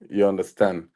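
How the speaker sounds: ordinary talk, nothing marked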